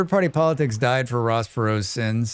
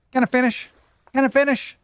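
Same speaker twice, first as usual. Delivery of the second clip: much higher, pleading whine; whiny Perot again; 12 semitones higher, faster than usual. Retold or imitated. Streamer laughing, redoes Perot's debate whine. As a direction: beg to finish, Texan with a wedgie. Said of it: "Dana Carvey as Ross Perot".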